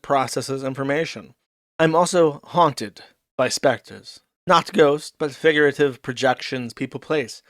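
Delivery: deliberate, measured read-aloud delivery; mock-formal diary reading. Commentator reading Ricada's diary post to chat, mock-formal. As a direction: read it out like a solemn diary entry.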